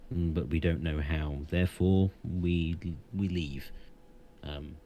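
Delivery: solemn, foreboding centaur; wise centaur voice. Acted. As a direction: warn them gravely, like a seer. GM holds the centaur's voice.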